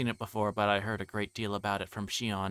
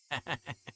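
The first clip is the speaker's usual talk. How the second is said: unhinged giggle; 6 semitones higher, 4 dB quieter than usual. Acted. Mad cackle at rival.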